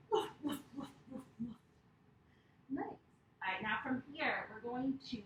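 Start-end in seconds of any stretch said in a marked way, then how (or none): 0.1-1.5 soft barking. Shown as a demonstration. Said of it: "what sound do dogs make".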